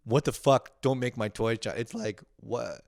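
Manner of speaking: put-on a kid scolding China for making his toys; indignant kid. Grown man voicing a kid who scolds China, high and indignant. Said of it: "Like, not like".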